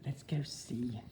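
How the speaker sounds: a put-on Australian accent; teacher asking students to rate his Australian accent. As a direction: lay on the Australian twang. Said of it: "How's my accent so far?".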